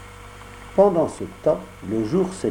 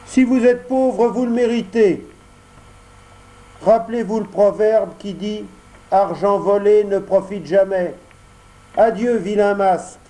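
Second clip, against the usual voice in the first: high, louder puppet voice, scornful; Pinocchio refusing; 8 semitones higher, 4 dB louder than usual. Acted. Pinocchio scornfully rebuffs the fox and cat. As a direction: send the swindlers packing.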